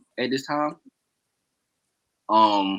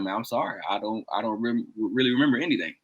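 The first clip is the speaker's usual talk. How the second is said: soft retold apology; 6 dB quieter than usual. Retold apology to man he cussed.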